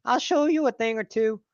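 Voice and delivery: mock Southern good ol' boy inviting Courtney to Tennessee; Southern accent. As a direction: put on a thick Southern accent, hammed up. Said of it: "they had a southern accent".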